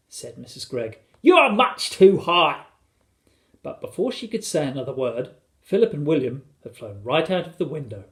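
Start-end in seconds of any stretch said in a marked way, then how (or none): 1.2-2.6 loud, high, slow warning; raised-voice motherly warning; alarmed scolding. A narrator's reading. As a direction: call up anxiously to children. Mother scolding flying sons.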